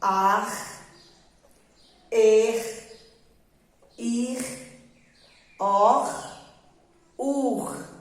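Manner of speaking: "ar", "er", "ir", "or", "ur" spaced out, each with a throaty final R; slow choral reading model; read-along demo. Shown as a demonstration. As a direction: lead the class through "ar", "er", "ir", "or", "ur". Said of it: "Vocês vão ler junto comigo agora".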